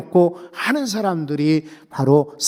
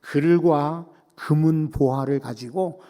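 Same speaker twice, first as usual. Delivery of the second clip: usual speaking voice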